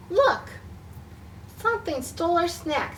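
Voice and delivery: alarmed. Acted. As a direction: call them over with alarm.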